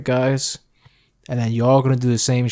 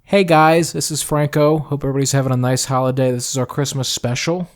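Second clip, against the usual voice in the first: podcast voice. Shown as a demonstration. Co-host redoing the intro for listeners, podcast voice. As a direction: punch the greeting, then roll on smoothly. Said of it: "in your podcast voice".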